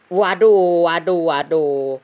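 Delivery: sudden loud startled cry, then settling; startled waduh. Real, not acted. Gamer startled by a flying object, loud alarmed cry. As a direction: jump at the scare and blurt it out.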